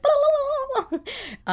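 high loud Muppet-style flailing babble; Muppet squeal. Retold or imitated. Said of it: "running like a Muppet".

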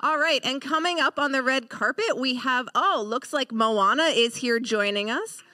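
gushing showbiz host; red carpet host. Acted. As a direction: play the eager awards host.

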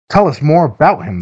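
put-on high-pitched, eager kids' plea; lightly acted childlike urging; eager boys' chorus. A narrator's reading. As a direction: pitch it up like excited boys asking. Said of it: "the boys chorused".

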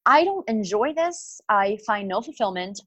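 rising, slowed despairing self-question; a touch of despair at her breaking point; inner voice. Retold or imitated. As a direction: ask yourself in dismay, slowing down. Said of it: "when I said to myself".

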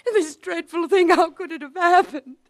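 breathless, teary, on the edge of breaking; barely holding herself together; half hysterical. Acted. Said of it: "is saying to him half hysterically".

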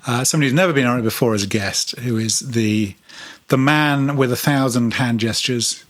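formal show-host introduction; podcast host intro. Acted. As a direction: present the guest like an announcer. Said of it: "Just trying to make it sound supernatural".

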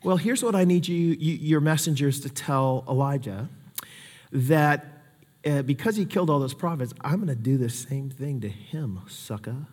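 low, quiet threat, spat out softly; menacing queen. Retold or imitated. Queen threatening the prophet in a low, quiet voice. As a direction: hiss it like a vengeful queen. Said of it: "And she says".

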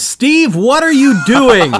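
laughing loudly at co-host. Real, not acted. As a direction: laugh through the question. Laughing at co-host's act.

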